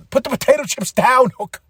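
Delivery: high-pitched mock outrage; Samoa Joe, angry. Joe ordering Hook to drop the chips, mock anger. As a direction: give a worked-up, comic order. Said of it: "He's angry".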